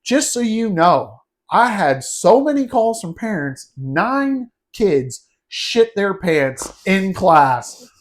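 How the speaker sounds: high, slow, fake-stern scolding; a principal straining to sound furious; mock angry principal. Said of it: "was trying to be angry".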